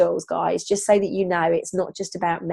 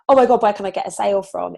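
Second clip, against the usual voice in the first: mock panicked grab; faster than usual. Shown as a demonstration. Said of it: "not like".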